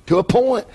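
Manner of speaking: "to a point" said deliberately, lifted; stress on "to a point". Shown as a demonstration. Pastor repeating his qualifier for the congregation, emphatic "to a point". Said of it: "I emphasize that".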